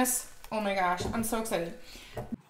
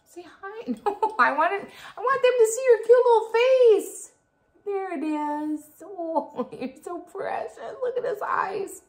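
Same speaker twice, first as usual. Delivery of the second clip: very high, louder cooing with giggles; 12 semitones higher, 5 dB louder than usual. Real, not acted. Cooing at her dog.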